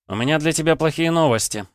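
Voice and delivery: smug high taunt; cocky. Acted. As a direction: grin while you say it. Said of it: "нахально улыбнулся я".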